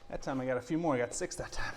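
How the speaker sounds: winded after crunches; doing crunches. Real, not acted. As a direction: talk while catching breath. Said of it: "my abs are burning like crazy".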